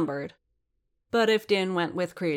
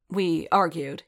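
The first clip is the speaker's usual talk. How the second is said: curt. Acted. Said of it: "he said shortly".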